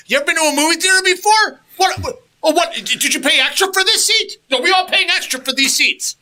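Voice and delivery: high, loud mocking disbelief, laughing through it; hammed-up outrage at the seat lady; exaggerated retold indignation, high and loud with laughs; incredulous rant. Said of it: "I was like".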